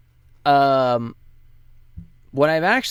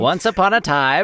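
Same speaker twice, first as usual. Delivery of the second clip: booming fighting game announcer; 7 semitones higher, 5 dB louder than usual. Pretend. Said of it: "putting on his announcer voice".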